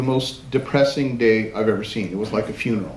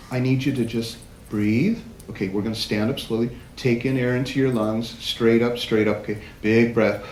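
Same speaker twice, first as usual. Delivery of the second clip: calm coaching; 3 semitones lower, 3 dB quieter than usual. Retold or imitated. Retold calming of a winded bride.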